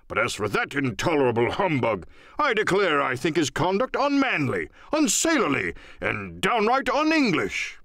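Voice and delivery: a hint of a blustering gentleman working up outrage; indignant squire. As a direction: squire fuming about the captain, rising pitch.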